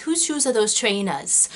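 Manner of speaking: amateur attempt at a Welsh accent. Shown as a demonstration. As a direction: have a rough go at a Welsh accent. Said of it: "I can't do a Welsh accent".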